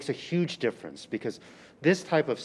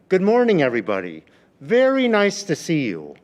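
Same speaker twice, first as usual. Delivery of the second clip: loud, higher, bright classroom welcome; exaggerated teacher greeting; 4 semitones higher, 8 dB louder than usual. Shown as a demonstration. Teacher opening class, exaggerated loud and high. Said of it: "I'm like".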